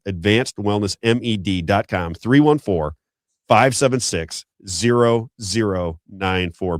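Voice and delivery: spelled out slowly, each digit clear; slow number read. Real, not acted. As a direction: make sure they can write it down. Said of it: "repeats number slowly".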